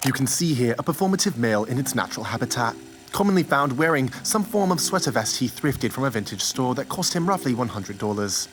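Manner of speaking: hushed wildlife narrator; nature documentary. Acted. Please enjoy this educational video.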